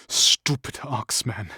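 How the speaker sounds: snapped. Acted. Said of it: "he snapped".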